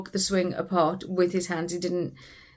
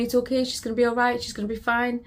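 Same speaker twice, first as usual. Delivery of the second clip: light, quick imitation of a soothing paramedic, higher; reassuring paramedic; 5 semitones higher, faster than usual. Mother imitating the paramedic who kept reassuring her. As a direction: rattle off soothing words a bit higher and faster. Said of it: "the paramedic kept saying to me".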